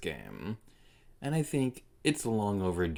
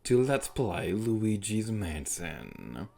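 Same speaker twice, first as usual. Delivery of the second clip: ghost host; much slower than usual. Acted. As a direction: drawl it like a haunted ride host. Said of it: "your ghost host".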